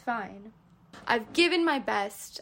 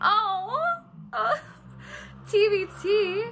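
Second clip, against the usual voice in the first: excited squeal; 10 semitones higher, 6 dB louder, much slower than usual. Real, not acted. Excited reaction to a question.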